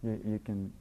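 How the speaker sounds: put-on gently reassuring, like settling a scared child; soothing. Shown as a demonstration. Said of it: "just say".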